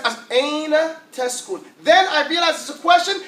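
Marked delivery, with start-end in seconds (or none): 0.4-1.6 "Aina teskun" slow and evenly sounded out, falling at the end; pronunciation practice. Shown as a demonstration. Teacher shows how he first learns the phrase, slow practice. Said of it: "I learn the pronunciation of the sentence".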